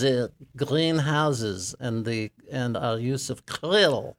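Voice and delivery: put-on Santa with a light French accent. Santa tells the radio host of Paris in a light French accent. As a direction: play Père Noël with a hint of French. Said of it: "Was it your French accent?".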